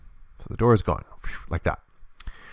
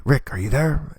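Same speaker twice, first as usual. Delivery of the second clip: higher-pitched mock call; 7 semitones higher than usual. Michonne looking for Rick, acted calling out. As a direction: call out lightly for someone missing. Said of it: "she's gonna call out".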